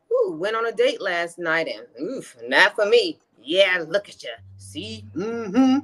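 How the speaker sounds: old-fashioned African American dialect, mocking; african american accent. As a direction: lay on a thick old Southern Black dialect. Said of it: "D is using her best seventeen hundreds African-American dialect".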